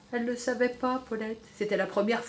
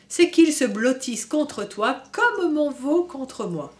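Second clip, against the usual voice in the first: slow cow voice; 3 semitones higher, 4 dB louder, slower than usual. Acted. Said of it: "meugla Valentine".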